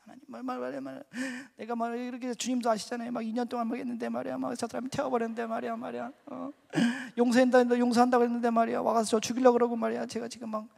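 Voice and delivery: high, run-on whining protest; imitated seven-year-old's tattling; childish complaining. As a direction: pour out grievances like a small kid. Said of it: "일곱 살짜리 꼬마애들처럼 막".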